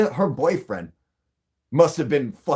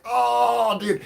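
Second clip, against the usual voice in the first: tag withheld; 11 semitones higher, 3 dB louder than usual. Retold or imitated. Retold panic while being chased.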